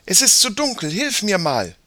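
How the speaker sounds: put-on high-pitched child's request; girl calling for help. A narrator's reading. Sister asks brother for help in the dark, urgent. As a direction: call your brother over to lend a hand.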